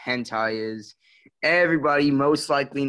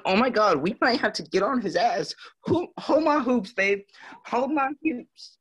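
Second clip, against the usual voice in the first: put-on much higher, sing-song girly voice; camp feminine voice; 9 semitones higher than usual. Friend demands an encore, so he camps it up in a much higher girly voice. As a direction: play up a sassy valley girl, all drama. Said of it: "I could talk in a feminine voice".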